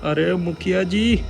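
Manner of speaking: high frantic pleading voice; panicked father. Acted. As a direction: beg for help in a panic. (घबराया हुआ पिता)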